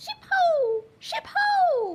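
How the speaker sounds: tiny, very high-pitched, very loud little voice. Narrator voicing an unseen figure calling out to the ship's crew, tiny voice. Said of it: "you hear a, a, a tiny voice say".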